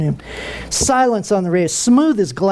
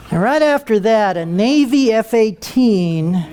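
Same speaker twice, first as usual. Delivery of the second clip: ordinary delivery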